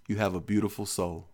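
softly, dreamy hippie lady; a hint of a soothing hippie; lightly voiced hippie blessing.

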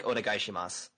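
"Onegaishimasu" read flat, every syllable even; flat, stiff foreigner reading of "Onegaishimasu"; flat foreigner Japanese. Shown as a demonstration. Showing how a foreigner reads Japanese, flat and even. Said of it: "they'll just read it flat".

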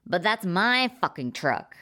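whiny protest over his truck; squealing. Acted. Blake protests to the blonde man, a mild squeal. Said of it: "Blake squealed".

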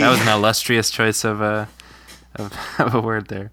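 talking with a lozenge; mouth full. Real, not acted. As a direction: talk round something in the mouth. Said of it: "lozenge in your mouth".

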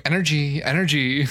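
infomercial. Retold or imitated. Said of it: "I'm over here going".

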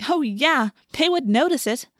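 eager agreement. A narrator's reading. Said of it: "Rachel agreed".

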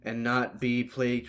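mock prayer. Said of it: "Jack do the pre-game prayer".

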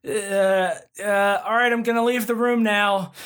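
high, awkward re-enacted exit line; stall, then blurt it out high as if fleeing; imitating a flustered, high-pitched escape; panicked mock blurt. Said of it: "screamed it at my friends and then left".

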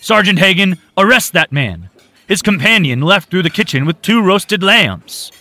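high, loud call for arrest; urgent shout. A narrator's reading. Owner calling sergeant to arrest vagrant, urgent shout. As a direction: yell for the officer.

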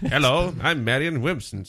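put-on mid-Atlantic accent. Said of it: "mid-Atlantic accent".

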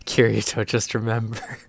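hint at a solemn voice from above; god voice. Retold or imitated. God speaking down to the hero, mock-solemn. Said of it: "a god voice came down and goes".

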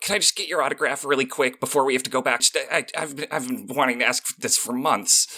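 high, rushed starstruck plea; awkward, breathlessly eager autograph ask; anxious fan request. Acted. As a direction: blurt it out nervously before courage fails. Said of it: "awkwardly walks up to Strahd".

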